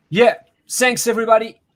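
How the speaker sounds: shaky voice from the cold; shivering with fever chills. Real, not acted. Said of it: "I'm freezing".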